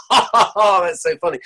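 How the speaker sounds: fake polite laugh. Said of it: "you're always still gonna go".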